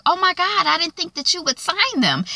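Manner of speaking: relieved surprise. Retold or imitated. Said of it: "she's kinda happy and relieved and confused".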